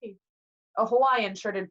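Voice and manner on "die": high, loud wail; panicked yelling. A narrator's reading. Dazed passengers running in circles, panicked high yell. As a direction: cry it out in panic.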